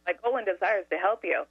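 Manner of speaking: sugary, unruffled scripted reply; syrupy sweet. Retold or imitated. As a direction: repeat the rehearsed line sweetly. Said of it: "the most syrupy, sweet voice".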